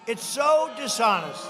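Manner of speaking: loud and slow, leaning on so; it's SO dishonest, stretched out; indignant shout. Real, not acted. Denouncing the governor to the crowd, a loud slow outraged call. Rally speech, attacking governor.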